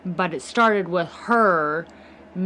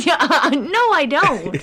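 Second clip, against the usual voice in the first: laughing, louder denial; 8 semitones higher, 7 dB louder, slower than usual. Real, not acted. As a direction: laugh while denying.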